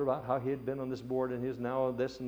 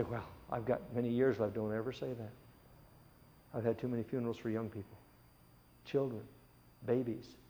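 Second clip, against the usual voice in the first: doomsday street preacher. Acted. Preaching of judgment day.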